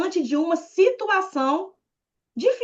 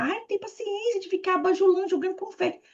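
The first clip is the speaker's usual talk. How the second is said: mock whiny complaint; 7 semitones higher, 4 dB quieter than usual. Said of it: "Assim, jogar".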